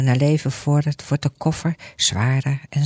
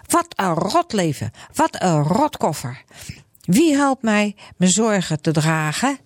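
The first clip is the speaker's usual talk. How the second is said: lightly voiced cursing complaint; grumbling Grietje; 3 semitones higher than usual. Grietje cursing her load, lightly voiced. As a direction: grumble at the rotten life. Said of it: "en roept".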